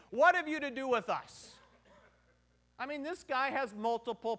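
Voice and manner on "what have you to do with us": louder, half-acted scream of the line; preacher showing how the man shouted; demo scream. Shown as a demonstration. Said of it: "if I start screaming".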